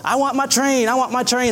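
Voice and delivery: high-pitched mock toddler whine; imitated crying child. Father mimics son wanting his train, high mock crying. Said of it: "He's crying like it's the end of the world".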